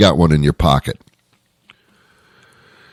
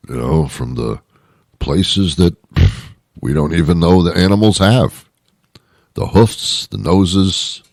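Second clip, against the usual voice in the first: lightly lowered Oscar Mayer voice, mocking the buyers; Oscar Mayer impression. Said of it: "that's my impression".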